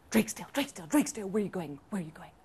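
lightly whispery fox voice; hushed fox calling out, fading to a whisper. Acted. Fox friend calls to Drake's Tale.

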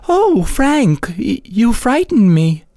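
put-on high, startled gasp of a girl. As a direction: caught off guard, voice jumps up. Startled girl in moonlit scene.

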